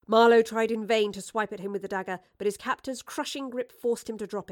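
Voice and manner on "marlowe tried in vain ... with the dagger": ordinary delivery, nothing marked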